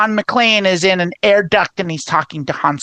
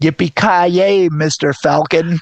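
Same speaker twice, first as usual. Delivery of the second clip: drawn-out catchphrase; 2 semitones lower, slower than usual. Pretend. Mock McClane line.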